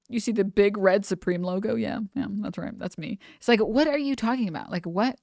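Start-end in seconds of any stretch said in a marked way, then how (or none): 0.1-3.2 quiet, smug self-satisfied murmur. Retold or imitated. Mocking a Supreme wearer, a soft smug gloat. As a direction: softly gloat like a show-off. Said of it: "they're like".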